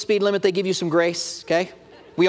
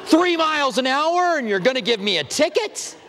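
incredulous; 6 semitones higher than usual. Retold or imitated. Arguing with cop over ticket.

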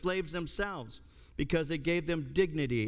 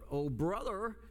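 mild mock call-out, higher in pitch; higher-pitched imitation of an interjecting classmate; classmate yelling out; 5 semitones higher than usual. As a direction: imitate the student piping up, no real volume. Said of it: "yells out".

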